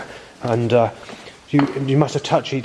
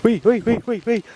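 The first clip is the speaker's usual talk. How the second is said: bird chirp imitation; 6 semitones higher than usual. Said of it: "Bird goes".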